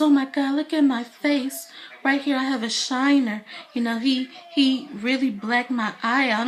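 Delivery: imitated complaint. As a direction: play up his whining over a small injury.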